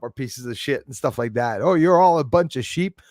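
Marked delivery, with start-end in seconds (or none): 1.6-3.0 a touch louder, slightly higher jeer; mild mock troll rant. Streamer lightly mimics a troll calling viewers sheep, mild jeer. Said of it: "starts flipping out".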